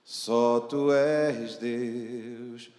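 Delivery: usual speaking voice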